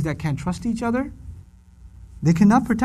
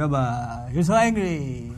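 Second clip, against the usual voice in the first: put-on low, slow, gentle child; soft child voice; 5 semitones lower, 4 dB quieter, slower than usual. Son hugging his father, soft and slow. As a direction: coo it like a hugging kid. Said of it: "Waleed gives me a hug".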